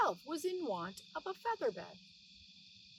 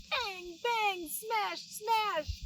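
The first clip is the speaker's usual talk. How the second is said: higher, punchy sound words; smashing the ham, each word a hit; excited bangs; 9 semitones higher, much slower than usual. A narrator's reading. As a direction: hammer each word like a blow. Hitting ham with tongs.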